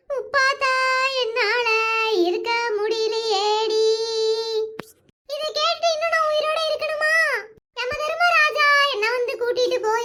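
hammed-up wail calling for death; mock lament. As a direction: cry out to the god of death in melodrama. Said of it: "எதுக்கு இப்படி அழுது ஆர்ப்பாட்டம்".

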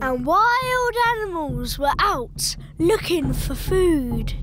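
low spooky story voice; spooky storyteller. Acted. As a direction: tell it to give a shiver. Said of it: "Make it scary".

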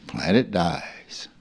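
slow whisper; soft, slow, unvoiced whisper. Real, not acted. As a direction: breathe the words out without voice. Whispered line.

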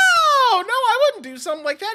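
high alarmed protest; panicked denial. Acted. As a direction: scramble to deny it. Threatened with the police.

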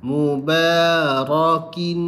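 Mubarakin ending in kin, half sung; wrong tanwin. Shown as a demonstration. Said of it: "tu kalau kin".

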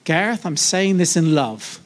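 sugar-coat the jab; mocking a fake loving rebuke to Gareth; mock sweet insult. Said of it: "that's not done in love".

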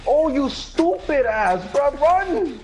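high, drawn-out urgent call; exasperated high-pitched warning. Real, not acted. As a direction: yell at a teammate to run. Urging a teammate to run.

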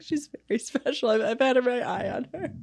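high, sly put-on voice of Ellen; a hint of a smug talk-show host; mock Ellen voice. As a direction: tease her in a knowing, sly tone. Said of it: "She's like".

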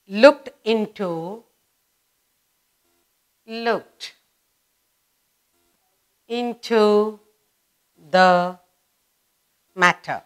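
slow, separated words with long pauses; word-by-word dictation. Shown as a demonstration. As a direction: dictate each word for note-takers.

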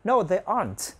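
"aren't" as "ahnt", with the closing T released; released final T. Shown as a demonstration. Teacher reminds students by example, "aren't" with released T. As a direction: pop the T at the end of "aren't". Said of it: "phải nhớ bật ở âm T".

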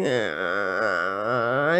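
low, soft imitated baby grunt. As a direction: copy a sleepy baby's little grunt. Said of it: "ele fica assim". (resmungo de bebê imitado)

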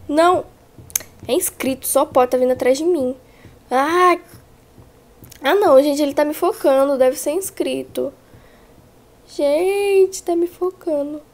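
frantic cries while fleeing the monster; being chased. Real, not acted. Monster chasing her in game. (desesperada sendo perseguida)

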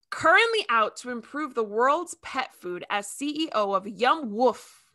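ordinary talk

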